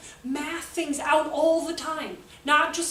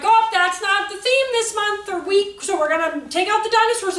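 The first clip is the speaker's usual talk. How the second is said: mock chipper teacher; 8 semitones higher, 9 dB louder than usual. Mocking a teacher removing dinosaurs.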